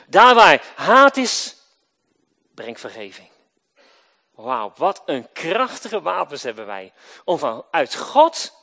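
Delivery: loud, rising calls then dropped answers; full-force preaching. Acted. Preacher calling out to the congregation, booming. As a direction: proclaim each line like a pulpit refrain.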